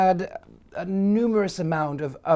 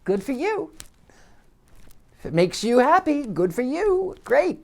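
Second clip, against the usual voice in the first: sarcastic; 9 semitones higher than usual. Retold or imitated. Sarcastic reply to the woman.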